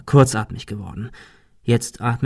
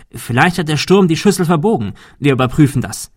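higher, louder, pushing ahead eagerly; overeager; 5 semitones higher, 4 dB louder than usual. Acted. Arthur urging the group to check the dish, overeager. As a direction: sound far too keen to get out. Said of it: "Sogar übermotiviert".

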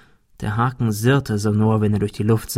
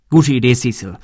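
motiviert; 4 dB louder than usual. A narrator's reading. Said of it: "Arthur klang motiviert".

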